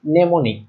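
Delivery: mnemonic set apart as "ne-mo-nik"; corrected mnemonic pronunciation. Shown as a demonstration. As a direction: demonstrate mnemonic as "nemonik". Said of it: "আমি কয়েকবার ভুল উচ্চারণ করছি".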